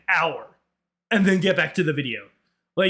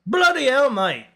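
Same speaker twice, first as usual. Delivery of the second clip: slow, exaggerated British; British accent; 7 semitones higher than usual. Shown as a demonstration. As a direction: put on a drawn-out British exclamation. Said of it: "The only British I can do".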